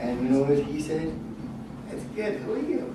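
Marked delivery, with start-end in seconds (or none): 1.9-2.9 put-on a light, high old-man voice, a bit vague; Hugh Hefner. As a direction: lightly play a forgetful old Hefner, casual and dazed. Hefner answers the door.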